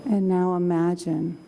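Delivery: calm, slow meditation voice; guided meditation. Acted. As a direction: guide them gently into calm.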